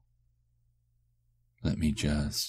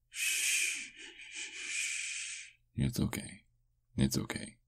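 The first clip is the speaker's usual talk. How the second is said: soft hushing, then whispered comfort; whispered, tender reassurance; soothing whisper; 11 semitones higher, 6 dB quieter, slower than usual. Acted. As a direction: hush them gently in a whisper. Soothing the bitten partner.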